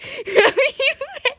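very high loud laugh burst; high squealing laugh. Real, not acted. Laughing at own comeback.

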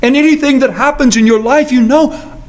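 Jesus gently reassuring Peter; calm, loving assurance; tender reassurance. Acted. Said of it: "this is a tender moment".

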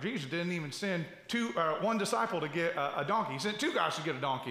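lightly voiced southern drawl; a hint of a Southern US drawl. Quoting a favorite leader, light southern drawl. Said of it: "kind of southern drawl".

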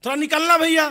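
stretched-out loud call for Ghansu; calling out loudly. Retold or imitated. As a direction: hail him from outside his door. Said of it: "मैं जोर से चिल्लाया".

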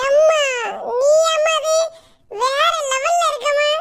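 high, loud awed cry, slowing at the end; overwhelmed with admiration; gushing daughter. Acted. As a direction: daughter marvelling at her mother's new look. Daughter gushing over mother.

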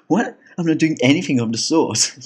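high, loud, outraged protest; indignant denial. Retold or imitated. Drunk Killian loudly denying hitting on a boy, indignant. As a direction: shoot back, caught and offended. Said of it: "And Killian's like".

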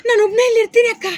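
loud, projected acted line; loud demonstration for an actor; urgent call. Shown as a demonstration. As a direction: project it loudly for a child to copy. Director repeats model line for child.

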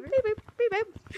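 high robot beeping; toy robot voice. Pretend. Boss character beeps.

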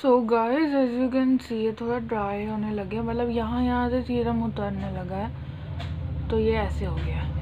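stiff cheeks under wet mask; careful lip movement under mask; speaking with sheet mask on. Real, not acted. Seen 0: Sheet mask covers face, lips open through cutout, throughout speech.

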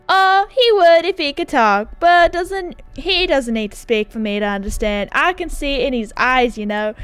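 hammed-up, uncertain Texas accent; a light stab at a Texan dude; attempted Texas accent. Character explaining his friend Bruce, roughly attempted Texas accent. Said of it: "like, a Texas accent".

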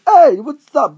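loud hey to a classmate; calling out. Retold or imitated. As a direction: call out to get someone to turn. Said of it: "every single time I say".

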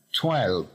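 "Twelve" said ending clearly on the V. Shown as a demonstration. Teacher shows the final V in Twelve. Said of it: "Termina con la V".

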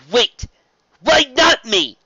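loud, high-pitched protest; indignant challenge. A narrator's reading. Spike challenging Rarity's reaction, indignant.

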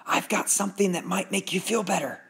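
friendly doctor offering help; kind dentist. Acted. Dentist character voice.

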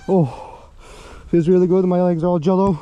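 breathing heavily; panting between words. Real, not acted. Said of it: "sorry if I'm breathing heavily".

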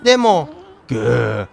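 low, slow, drowsy mayor; sleepy mayor voice. Acted. Streamer voices the mayor drifting off to sleep, drowsy. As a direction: fade into a snore.

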